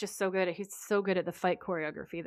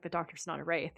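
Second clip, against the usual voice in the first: softer, sober retelling; suddenly serious; 2 semitones lower, 6 dB quieter than usual. Retold or imitated. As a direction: drop the volume for a mock-grave statement. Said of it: "he gets really serious".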